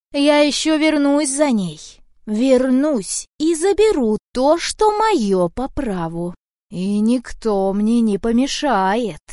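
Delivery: loud, slow villain's threat; menacing threat. Acted. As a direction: promise to come back, looming. Witch's parting threat. (громкая медленная угроза ведьмы)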